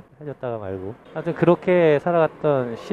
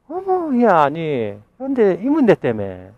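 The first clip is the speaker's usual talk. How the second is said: gushing surprise; 2 semitones higher, 5 dB louder than usual. Retold or imitated. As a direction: act delighted and amazed. Mother brags about son now.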